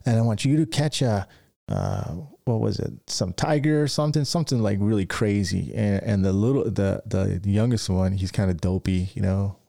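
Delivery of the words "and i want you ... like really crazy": bossy mama vulture voice, pitched higher; mama bird giving out hunting orders to her chicks. Retold or imitated. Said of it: "the mama vulture goes".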